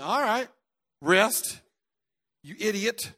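scolding his own wrist, high and loud; yelling at a sore wrist like it's disobeying; angry at wrist. Retold or imitated. Preacher retelling how he scolded his injured wrist, angry loud rebuke. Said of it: "I'm talking to my wrist".

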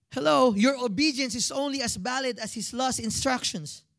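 Filipino accent slipping out, "last" near "lust". Real, not acted. Preacher urging church to obey, in Filipino accent. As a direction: let the Filipino accent come out on "valid" and "last". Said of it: "that was my accent. It came out".

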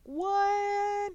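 high, stunned disbelief; incredulous. Retold or imitated. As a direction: squeak out the shock. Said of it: "And I'm like".

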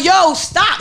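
firm, flat warning; mean it, shut it down; real stop. Retold or imitated. Woman demoing her real stop to a guy, firm. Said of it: "That's my real stop".

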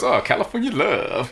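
soft drawn-out imitation. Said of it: "he didn't talk like that".

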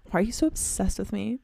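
whispered mock conceit; teasing exes in a hushed voice; playful hushed brag; joking whisper. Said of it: "I'm just joking".

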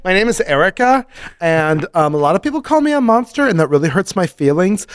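high, fast, sweet little voice; cute monster voice. Pretend. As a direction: squeak it out like an innocent monster. Voicing the Erica monster.

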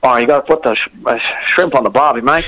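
jokey stock Aussie accent; Australian accent. Shown as a demonstration. Guest showing off his Australian accent on request, Australian accent. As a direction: put on a matey Australian twang. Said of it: "What about an Australian accent?".

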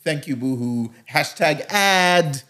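slow, drawn-out hashtag ad; mock influencer voice. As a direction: parody a gushing influencer. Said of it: "you're still gonna put".

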